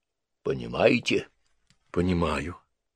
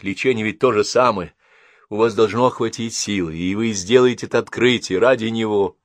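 louder, earnest pleading; urging; 5 semitones higher, 8 dB louder than usual. A narrator's reading. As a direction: push her to keep fighting. Henrietta urging.

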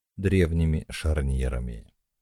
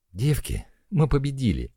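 joyful shout; 8 semitones higher than usual. Acted. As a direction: shout out the win with glee. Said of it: "крикнула Машка". (радостный крик)

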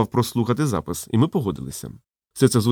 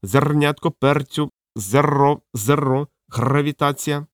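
parrot voice; 3 semitones higher, slower than usual. Acted. Parrot speaks.

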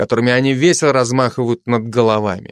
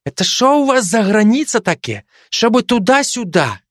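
put-on higher puzzled Ukrainian-accented voice; 10 semitones higher than usual. Ukrainian soldier puzzled by the joke, in a Ukrainian accent. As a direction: ask in baffled Ukrainian accent. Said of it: "каждый со своим акцентом".

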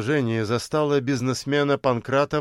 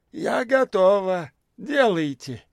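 громко объявила; 7 semitones higher than usual. A narrator's reading. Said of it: "громко и во всеуслышание объявила".

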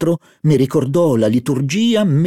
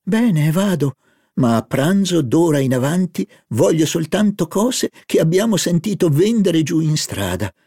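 put-on higher, lively girlish voice; eager young woman; 5 semitones higher than usual. Narrator voicing Albertine excited about the market food. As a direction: play Albertine, greedy and delighted.

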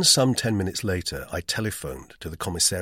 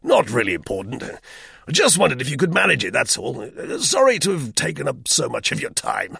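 clipped English officer, awkward and pleading; an old soldier hating to beg for money; gruff, uneasy British major; embarrassed Major; 7 semitones higher, 6 dB louder than usual. Acted. Major brushes off refusal.

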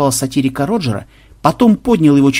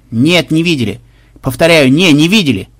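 emphatic called-out denial; hailing reply; 4 dB louder than usual. Acted. Pirate denying the sighting to the flagship, called-out reply. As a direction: call it across to another ship. Махмуд отвечает флагману в рупор.

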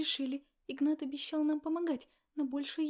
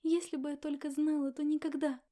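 tearful confession; 5 semitones higher, 7 dB louder than usual. Acted. Sobbing pregnant girl confessing.

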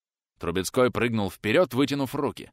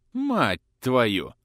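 curse slipping out. Acted. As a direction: blurt the curse out. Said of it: "вырвалось у князя".

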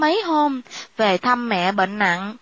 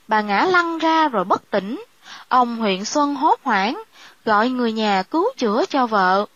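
plain reading voice

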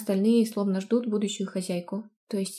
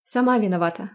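louder teasing tone; mocking; 4 dB louder than usual. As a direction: tease her playfully. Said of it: "насмешливо ответил".

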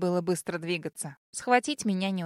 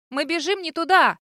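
raised, louder alarmed protest; worried protest; 6 semitones higher, 5 dB louder than usual. A narrator's reading. Girl resisting Вален who drags her on, worried protest. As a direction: protest urgently, pitch up. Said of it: "заволновалась я и начала сопротивляться".

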